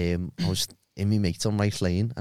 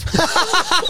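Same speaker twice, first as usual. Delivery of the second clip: high burst of laughter. Real, not acted. Laughing at own story.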